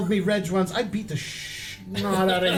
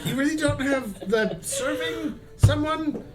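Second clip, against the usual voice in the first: pompous nobleman voice; haughty noble; 3 semitones lower than usual. Acted. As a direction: play the snooty noble. Lofty noble character voice.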